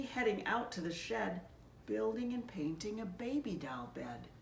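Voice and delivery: gentle rhyming storybook reading; story narration. A narrator's reading. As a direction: read it like a picture book to children. Pastor reads rhyming Christmas story.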